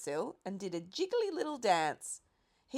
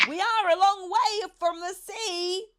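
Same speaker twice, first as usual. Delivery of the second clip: high, loud call up to a window; called back; 12 semitones higher, 8 dB louder than usual. A narrator's reading. Boy calls up to the pelican at the window, loud. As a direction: call up to the bird above. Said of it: "I called back to him".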